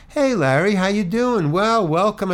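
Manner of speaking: imitating upbeat hellos; retold cheery greeting. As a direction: greet him brightly, all pleased to see him. Producers greet him cheerfully at party.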